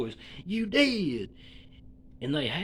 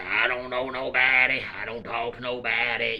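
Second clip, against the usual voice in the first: Haystack impression; 7 semitones lower, 4 dB louder than usual. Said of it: "Haystack was talking like this".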